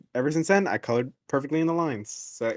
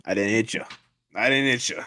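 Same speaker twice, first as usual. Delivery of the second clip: put-on dad in a light New York accent; lightly voiced New York dad denying it; 3 semitones lower than usual. Dad denying he hit his son, in a light New York accent. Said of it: "giving my dad a New York accent".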